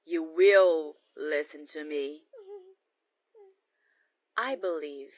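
loud firm order; commanding. Acted. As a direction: command obedience. Commanding captive.

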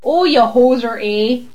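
put-on lightly caricatured Canadian accent; mock Canadian accent. Mocking how everyone imitates Canadians, Canadian accent. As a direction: imitate a stereotype Canadian with rounded vowels. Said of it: "everyone who does a Canadian accent".

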